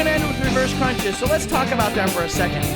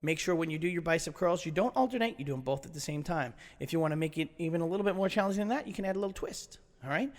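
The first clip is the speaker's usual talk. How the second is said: much softer, lower, relaxed; soft, calm instruction; 7 semitones lower, 11 dB quieter than usual. Real, not acted. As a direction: wind down gently.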